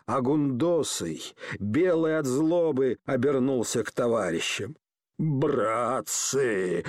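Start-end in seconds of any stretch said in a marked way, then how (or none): 5.2-6.8 a quavering call, drawn out; a put-on whimper to his comrades; trembling, tearful. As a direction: plead to the mob like a wronged man. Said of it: "дрожащим, плачущим голосом".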